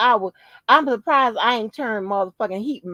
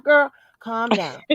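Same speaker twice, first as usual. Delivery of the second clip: self soothing; 2 semitones lower, slower than usual. Retold or imitated. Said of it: "I'm talking to myself".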